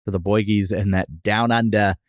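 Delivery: playful mock Australian accent on "down under"; a lightly done Aussie twang, for fun. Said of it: "look at you and your Australian accent".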